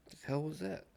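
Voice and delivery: high, grossed-out question; disgusted surprise. Real, not acted. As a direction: ask it grossed out. Reacts to gnat in mouth.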